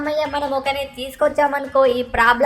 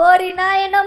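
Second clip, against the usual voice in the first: panicked cry; 4 semitones higher, 5 dB louder, slower than usual. Acted. Monster ate uncle.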